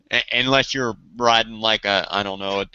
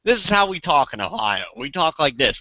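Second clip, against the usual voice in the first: plain Ohio talk; 4 semitones higher than usual. Shown as a demonstration. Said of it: "we don't talk like that in Ohio".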